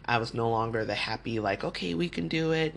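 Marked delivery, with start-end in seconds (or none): 1.6-2.8 bubbly cheer. Retold or imitated. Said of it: "I was no longer that bubbly me".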